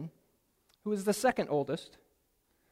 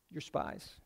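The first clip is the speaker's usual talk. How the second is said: much lower and softer, menacing; low cold accusation; 9 semitones lower, 13 dB quieter than usual. Acted. Joseph coldly repeating the charge to the brothers, low and soft. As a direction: drop it low and cold, like a verdict.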